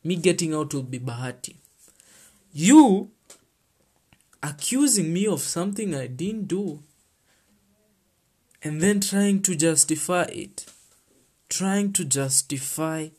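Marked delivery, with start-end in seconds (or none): 2.5-13.1 indignant outburst. Real, not acted. Rant about false accusation.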